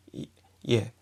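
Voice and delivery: "ye" built from i plus e; joined I-E. Shown as a demonstration. Teacher showing the katakana combination, joined I-E. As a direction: say "Y" alone, then glide into "ye". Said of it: "se podría escribir como una I".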